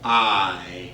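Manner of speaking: lightly voiced old teacher, slow and measured; a hint of an old schoolteacher, deliberate pauses. Old teacher explaining the Pledge to boys and girls, slow and measured. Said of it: "old teacher comes walking up".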